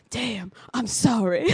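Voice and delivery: slow imitation of an echoey backing singer; mock echoey R&B ad-lib; echoey backup vocal. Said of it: "echoey voice that goes".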